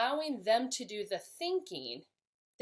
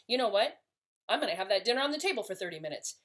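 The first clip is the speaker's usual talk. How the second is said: frustrated; much faster than usual. Shown as a demonstration. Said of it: "but I say it like".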